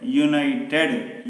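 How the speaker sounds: "United" slowly, opening on a clear "you" sound; pronunciation demo. Shown as a demonstration. Teacher showing the consonant sound that starts the word, "United" sounded out slowly. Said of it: "united is the pronunciation".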